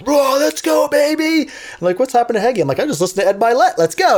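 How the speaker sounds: high, pumped greeting to the class; hyped-up teacher. Retold or imitated. Teacher bursting into class all fired up. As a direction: burst in fired up after a podcast. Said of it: "I'll come in like".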